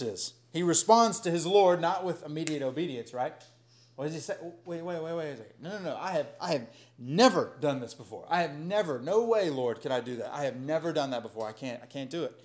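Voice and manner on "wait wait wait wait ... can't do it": Peter protesting. Acted.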